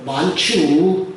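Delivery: slow, drawn-out Chungcheong accent; Chungcheong dialect. Shown as a demonstration. Preacher demonstrating thanks to the congregation in Chungcheong dialect. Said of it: "충청도 버전으로".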